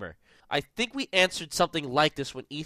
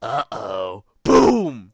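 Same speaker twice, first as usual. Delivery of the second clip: mock doomed guy; 4 semitones lower, 10 dB louder, much slower than usual. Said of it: "So he's just like".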